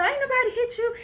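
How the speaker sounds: retold yell. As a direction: call it out the car window, exasperated. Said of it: "I'm yelling out the window".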